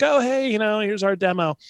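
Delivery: lightly voiced singer handing over a demo; casual singer. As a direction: toss it off like a casual kid. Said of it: "dropped off a cassette like".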